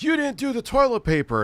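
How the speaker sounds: high mock whiny coworker voice. Mocking the coworker who nagged about toilet paper, high voice. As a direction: squeak it out like the pushy coworker.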